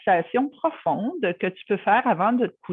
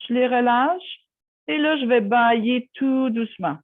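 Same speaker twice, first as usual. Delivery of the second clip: guided relaxation. Acted. Guiding listeners through a superhero yogi relaxation story, soothing guided meditation. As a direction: lead a child-friendly yoga nidra, settling gradually.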